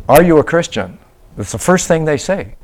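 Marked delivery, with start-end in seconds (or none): 0.1-1.0 raised, higher imitating a direct challenge; blunt demand. Missionary imitating Chokwe evangelists' blunt opening, raised voice. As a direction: fire the question straight at them. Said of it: "They'll say".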